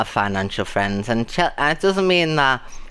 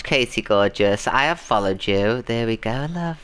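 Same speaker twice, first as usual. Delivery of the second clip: ordinary delivery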